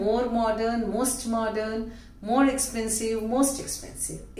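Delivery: very slow, each word drawn out; slow demo. Shown as a demonstration. Teacher showing the class the three degrees, very slowly. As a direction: stretch every word so the class can follow. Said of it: "teacher revises degrees slowly".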